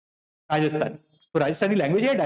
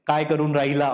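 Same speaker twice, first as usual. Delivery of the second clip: lightly voiced Nagpuri Marathi phrasing, "काय करून राहिला?"; a touch of Nagpuri Marathi, "राहिला" said in full; 3 semitones lower than usual. Shown as a demonstration. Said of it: "हमारे यहाँ पे बोला जाता है ना".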